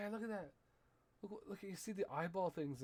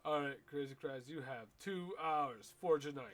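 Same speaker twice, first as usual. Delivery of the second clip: mock order; 6 dB louder than usual. Barking orders at game character.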